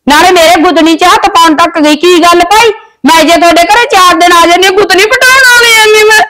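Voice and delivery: complaint that breaks into a sob at the end; tearful plea to her brother, crying at the end; staged crying. Acted. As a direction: perform hurt to win the brother over. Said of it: "ਚੱਲ ਬਸ ਪੁੱਤ ਰੋ ਨਾ".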